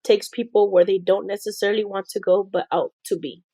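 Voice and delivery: measured, emphatic read-aloud voice; reading a quote. Real, not acted. Assistant reading a motivational quote to her boss, deliberately. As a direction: read it out deliberately, starting strong.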